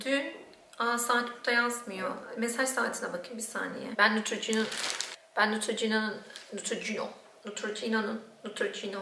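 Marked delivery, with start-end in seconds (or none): 4.0-6.2 slurred, stumbling on the word; words tripping on a stiff mouth; tongue numb from cold. Real, not acted. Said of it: "söyleyemiyorum". 6.5-9.0 mispronounced. Real, not acted. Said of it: "söyleyemiyorum".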